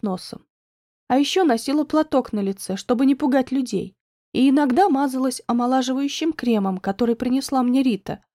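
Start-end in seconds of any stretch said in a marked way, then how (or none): none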